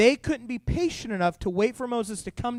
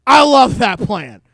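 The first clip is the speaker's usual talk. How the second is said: delighted; 3 semitones higher, 12 dB louder, slower than usual. Retold or imitated. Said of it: "And I was like".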